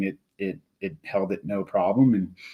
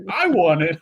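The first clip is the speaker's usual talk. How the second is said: imitated winner's cry, higher and louder; retold triumphant call; excited winner; 7 semitones higher, 5 dB louder than usual. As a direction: burst out as the surprised winner. Winner turns up waving ticket.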